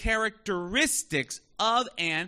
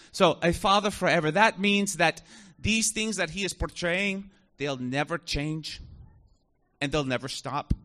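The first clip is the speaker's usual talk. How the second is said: Alistair Begg impression. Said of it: "That's exactly how he said it".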